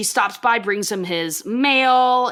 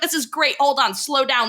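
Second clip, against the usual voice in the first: higher-pitched, eager imitation; excited mock delight; 5 semitones higher than usual. Peggy gathers insults for Bill, excited. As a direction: halt them eagerly, voice lifted.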